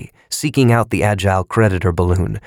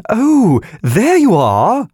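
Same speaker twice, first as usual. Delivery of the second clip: high squeaky piping; piping balloon voice; 5 dB louder, slower than usual. A narrator's reading. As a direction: pipe it up, tiny and shrill. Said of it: "The balloon piped".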